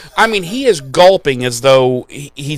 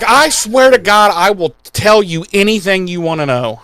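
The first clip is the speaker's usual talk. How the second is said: higher, urgent mock begging; desperate pleading; 4 semitones higher than usual. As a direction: promise anything to be spared. Acting Spike begging to be spared.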